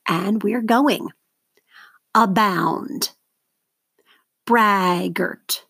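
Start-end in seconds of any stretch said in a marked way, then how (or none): 2.1-3.1 "Abound" with BOUND stressed; stress on second syllable. Shown as a demonstration. Teacher models for seventh graders to mark, stressed a-BOUND in "Abound". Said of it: "circle the stress syllable". 4.5-5.6 "Braggart" with BRAG stressed; stress on first syllable. Shown as a demonstration. Teacher models for seventh graders to mark, stressed BRAG in "Braggart". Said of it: "circle the stress syllable".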